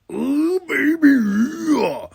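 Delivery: very high, drawn-out wailing croon; hammed-up delight. Fan relishing the Asuka versus Rhea main event, hammed-up wail.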